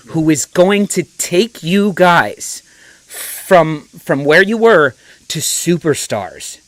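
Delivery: slow, deliberate talk to a youngster; lightly voiced fatherly lecture; older man lecturing. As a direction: spell it out slowly, like advising a son. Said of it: "forty-year-old man talking to a kid in his twenties".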